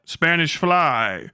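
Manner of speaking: Spanish fly stretched out slowly, comic drawl; Bill Cosby. Retold or imitated. Streamer reading Cosby's routine, imitating his slow drawl. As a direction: savour each word like a stand-up bit. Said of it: "that's how he says it".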